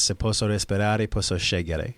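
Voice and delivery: "Se posso respirare, posso scegliere" said in Italian; spoken in Italian. Shown as a demonstration. Guest reciting his mantra in Italian on request, Italian. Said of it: "Can you say that in Italian?".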